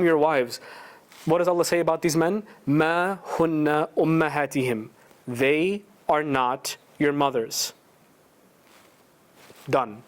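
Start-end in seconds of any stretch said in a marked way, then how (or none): 2.7-4.9 quick, flowing recited chant; Quran recitation. Shown as a demonstration. Preacher reciting the verse about the arguing wife, fast chant. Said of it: "the ayat I wanna read to you".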